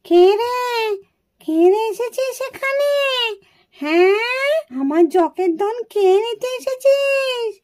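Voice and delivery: slow, eerie guardian spirit threatening; treasure ghost. Acted. Yaksha guarding his treasure threatens the children, slow eerie growl. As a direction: drag each word out like a menacing spirit.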